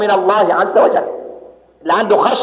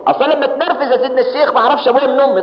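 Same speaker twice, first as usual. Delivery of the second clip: nervous man; 6 semitones higher, faster than usual. Retold or imitated. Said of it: "يقول لك".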